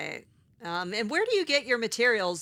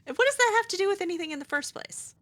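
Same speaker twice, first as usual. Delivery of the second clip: mocking indignation; 12 semitones higher, much faster than usual. Real, not acted.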